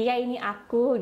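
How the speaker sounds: lightly acted polite reply; a touch of newly well-mannered speech; changed, demure speech. Reformed woman answers surprised colleagues, lightly demure. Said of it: "Cara ngomongnya juga udah berbeda".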